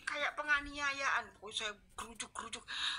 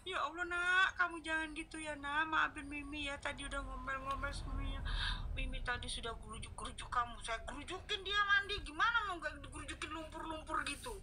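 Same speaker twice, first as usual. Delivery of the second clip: tearful plea; 4 semitones higher than usual. Retold or imitated. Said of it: "saya tangis kayak".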